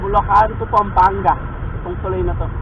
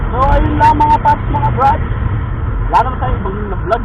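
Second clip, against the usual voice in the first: loud vlog outro; 4 dB louder than usual. Real, not acted.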